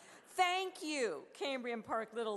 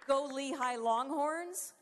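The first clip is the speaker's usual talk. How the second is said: cheer; 4 semitones higher, 3 dB louder, slower than usual. Pretend. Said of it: "can I say".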